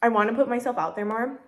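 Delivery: talking through a mouthful of food; words round a bite, mouth full. Real, not acted. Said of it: "talking with my mouth full".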